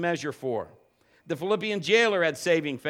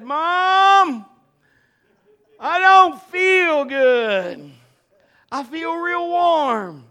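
fake sick kid; 10 semitones higher, 12 dB louder, much slower than usual. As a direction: ham up the sick boy, drawing it out. Boy faking illness to skip school.

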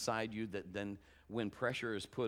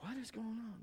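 worried inner question; 10 semitones higher, 8 dB quieter than usual. Retold or imitated. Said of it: "just like".

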